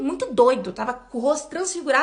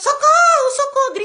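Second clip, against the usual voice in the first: mock frantic cries, very high, desperate screaming; 10 semitones higher, 4 dB louder than usual. Recounting her mother screaming as a man pulled her into a car; imitating a desperate scream for help. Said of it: "gritando, sabe? Gritando, desesperada".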